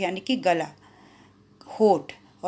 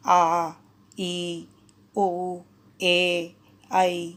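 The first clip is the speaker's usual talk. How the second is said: long vowel; much slower than usual. Shown as a demonstration. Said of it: "उन्हें दीर्घ स्वर कहते हैं".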